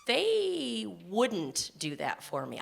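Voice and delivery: put-on slow, resigned old belief; sinking into the old assumption; old doubt. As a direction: say it like the habit you still carry. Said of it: "I caught myself".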